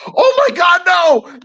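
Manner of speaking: high, loud yell of alarm; retold yell. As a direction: cry out in dismay at the thrower. Buddy sees beans thrown, yells.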